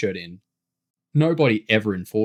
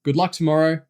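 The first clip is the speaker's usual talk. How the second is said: louder, higher well-wishing call; raised-voice send-off; 6 semitones higher, 5 dB louder, faster than usual. A narrator's reading. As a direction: call it across the room. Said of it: "James called".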